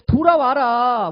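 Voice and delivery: a prophet calling the people back, loud and slow. Acted. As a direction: cry 돌아와라 out slowly like calling someone home. God pleading through prophets.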